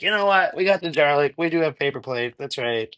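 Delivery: breezy and sure of yourself; confident self-talk. Retold or imitated. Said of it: "Now I'm just kinda like".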